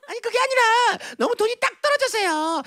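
high, chirpy excuse; wheedling sister. Acted. Sister wheedles for more money.

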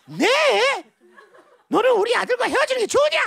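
high-pitched incredulous question; flustered mother. Acted. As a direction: demand an answer, taken aback. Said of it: "더욱 당황한 그 어머니는".

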